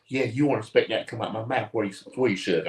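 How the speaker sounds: quick imitation of a thick Southern accent; lightly mimicked Southern waitress accent. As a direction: put on a thick accent, briskly. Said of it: "it was thick. It was so thick".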